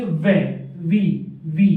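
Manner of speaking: separate, punched "वे", "वी", "वी"; pronunciation demo. Shown as a demonstration. Teacher shows students the V stroke's sound, pronunciation demo. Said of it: "वे की pronunciation देखिए".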